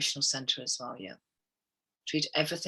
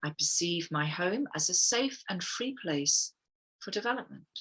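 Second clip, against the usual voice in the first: guided affirmation. Shown as a demonstration. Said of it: "close your eyes again, girls, and I will read them out".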